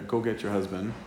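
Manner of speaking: a soft, gentle request; Jesus gently asking the woman, lightly voiced. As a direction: say it gently, like an invitation. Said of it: "Very gentle".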